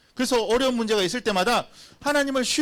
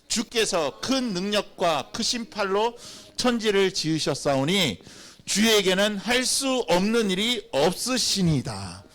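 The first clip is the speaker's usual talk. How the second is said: slow, measured Bible reading; scripture recitation; slower than usual. Real, not acted. Preacher reading Jeremiah with the congregation, slow recitation. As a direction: lead a congregation reading aloud, slowly.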